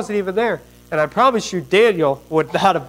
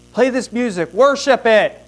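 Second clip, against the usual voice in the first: raised, higher-pitched royal order; commanding king; 6 semitones higher than usual. Acted. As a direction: order the crowd to worship. King's command to worship.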